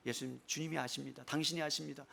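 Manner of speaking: hushed, humble reply; humble answer. Acted. Peter answering Jesus' question about love, humble and hushed. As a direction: answer very softly, almost to yourself.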